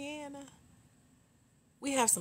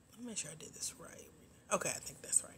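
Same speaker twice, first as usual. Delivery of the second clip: unvoiced private check, softer and quick; whispered to herself; 12 dB quieter, faster than usual. Real, not acted. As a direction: whisper it to yourself while checking. Muttering to herself while checking work.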